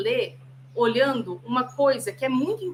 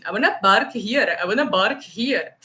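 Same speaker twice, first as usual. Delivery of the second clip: imitating Arab friend; 4 dB louder than usual. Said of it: "ele falou assim".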